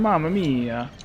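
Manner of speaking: cartoon Italian lament; mock Italian accent. Gamer lamenting a setback in mock Italian accent. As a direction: play up a stereotyped Italian accent. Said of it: "I could do that accent".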